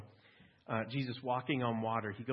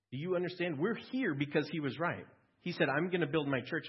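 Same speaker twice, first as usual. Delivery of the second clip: fervent preaching; 5 semitones higher than usual. Real, not acted. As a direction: drive the point home to the congregation. Preacher urging the congregation.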